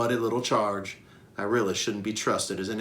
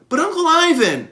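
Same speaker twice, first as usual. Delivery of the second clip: put-on high, louder childish plea; pleading; 10 dB louder than usual. Young Ruby pleading with Okello, a high whine. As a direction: beg her uncle. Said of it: "Ruby pleads".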